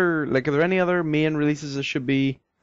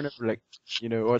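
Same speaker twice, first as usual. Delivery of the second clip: ordinary talk, nothing marked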